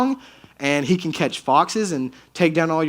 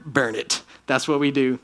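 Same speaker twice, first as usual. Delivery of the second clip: mock caveman voice; 4 semitones lower, 3 dB quieter than usual. Old Testament answer: burn it.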